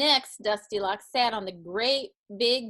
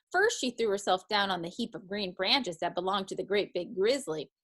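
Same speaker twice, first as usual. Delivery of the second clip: plain reading voice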